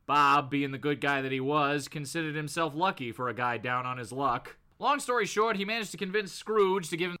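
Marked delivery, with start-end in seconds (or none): 0.1-4.6 comic-book narrator. Acted. Narrator closing Bob's scene, in a low storytelling voice. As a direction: read it as a deep storyteller's aside. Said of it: "the narrator chimes in after that with".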